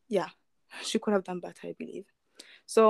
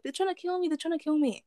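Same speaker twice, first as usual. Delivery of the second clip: panicked Colton; 9 semitones higher, faster than usual. Retold or imitated. Colton panics, being chased.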